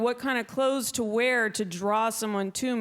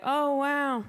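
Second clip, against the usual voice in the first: uncomfortable; 2 semitones higher than usual. Pretend. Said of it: "when I get very uncomfortable".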